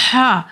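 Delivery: हा with the breath pushed out; airy हा with the mouth full of breath; breathy ha. Shown as a demonstration. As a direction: breathe the हा out from the throat. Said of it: "हमारी ब्रीथ जो होती है वो बाहर".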